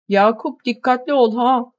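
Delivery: high, loud warning call; shrill shout. Acted. Wife calling out a warning to her departing husband, loud and high. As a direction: shout a worried warning after him. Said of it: "diye bağırdı kadın tiz bir sesle".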